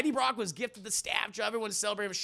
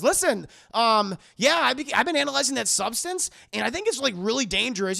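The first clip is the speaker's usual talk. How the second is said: acted doctor; 5 semitones higher, 8 dB louder than usual. Retold doctor warns on the phone.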